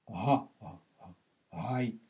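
low, soft repeated ГА and ГАЙ on a voiced h; украинское «г». Shown as a demonstration. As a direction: sound out ГА, ГА, ГАЙ slowly with Ukrainian h. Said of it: "Га, как украинское". («га, гай» с мягким украинским «г»)

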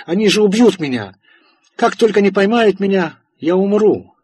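high, loud hunted scream; being chased. Acted. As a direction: scream like death is coming.

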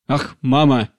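a sharp impatient cutoff. A narrator's reading. Daughter interrupts her pleading mother, impatient. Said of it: "нетерпеливо прервала её Вера".

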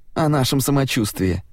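high squeaky mocking echo; squeaky mocking mimic. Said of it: "писклявым голосом передразнил".

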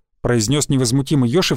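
plain reading voice

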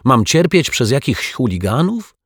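high, aggrieved whine; plaintive rising question; moaning.

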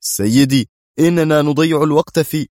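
high, loud, agitated protest. A narrator's reading. General protests to the director about wasted time, agitated. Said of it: "قال كواليسكي في عصبية".

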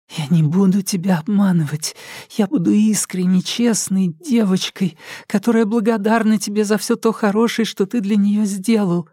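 put-on high, childish, pleading girl's voice; childlike voice. A narrator's reading. Alka placates her captor in a high childish voice. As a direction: sound like a good little girl. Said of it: "стал более детским".

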